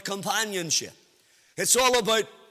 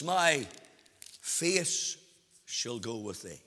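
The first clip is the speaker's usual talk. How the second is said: softer, with long pauses between "My" and "face"; hushed, slow; 11 semitones lower, 9 dB quieter than usual. Shown as a demonstration. Preacher giving the literal translation, hushed and slow. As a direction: lower and draw each word out in awe. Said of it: "literally translated, it means".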